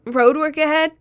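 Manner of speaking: a mock-incredulous question, pitch jumping up; Vine quote.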